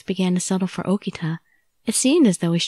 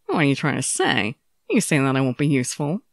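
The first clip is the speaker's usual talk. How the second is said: low, bitter male voice; a proud fighter insulted; offended swordsman; 5 semitones lower than usual. Acted. Okita's voice, offended.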